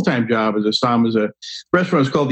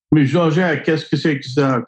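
put-on French accent; 4 semitones higher than usual. French chateau owner asking the waiter.

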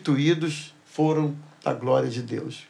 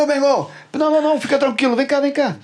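reassuring; 9 semitones higher, much faster than usual. Retold or imitated. Reassuring the scared attendant.

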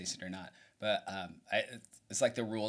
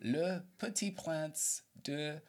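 slow careful French accent; 4 semitones higher, slower than usual. Shown as a demonstration. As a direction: say Le Petit Prince de Genovia slowly in a French accent. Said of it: "help me with my French accent".

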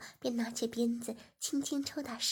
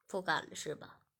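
low, mocking master voice; stern master; 7 semitones lower than usual. A narrator's reading. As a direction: menace her lightly.

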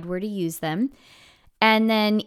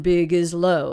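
low and louder; low big voice; 3 semitones lower, 4 dB louder than usual. Shown as a demonstration. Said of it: "So it'll be like".

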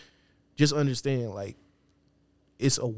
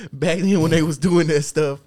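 louder, slower and higher, stretched out for effect; hammed-up emphatic repeat; 5 semitones higher, 8 dB louder than usual. Repeating his point to the podcast crew, hammed-up and loud. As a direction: lean on it like a mock preacher. Mock repeat after laughing.

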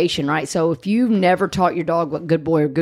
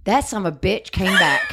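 exasperated shout. Real, not acted. To partner about the pest control guy, an exasperated shout. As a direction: blurt it out in outrage. Angry at returning salesman.

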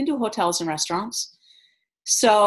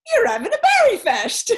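much higher, louder imitation of the amused guard; teasing guard; 5 dB louder than usual. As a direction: play the guard ribbing them. Security guy teasing about blueberries.

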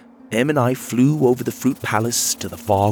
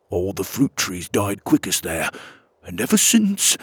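nervous villager voice. Acted. Villager fairy character voice.

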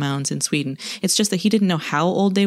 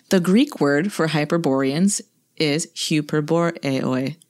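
Greek accent. Shown as a demonstration. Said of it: "I'm laughing at your Greek accent".

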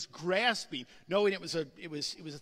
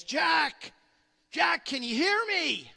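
higher, louder calling voice of God; voice from above; 7 semitones higher, 6 dB louder, slower than usual. Retold or imitated. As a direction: call down to the man on the cliff. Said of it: "He heard a voice".

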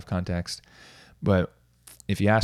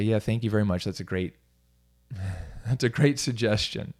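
sarcastic thanks. Retold or imitated. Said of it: "Or I'll say".

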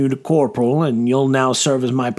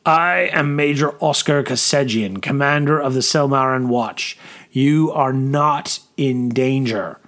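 firm, measured proclamation; commanding officer. Acted. Officer addresses an angry crowd.

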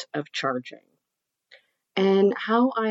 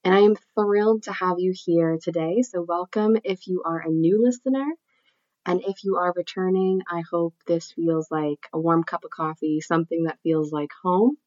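nasal voice from a cold; nasally voice. Real, not acted. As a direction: speak through a blocked nose with a cold. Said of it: "my nasally voice".

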